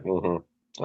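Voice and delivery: barely bother to answer, softly; imitated noncommittal reply. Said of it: "And he's like".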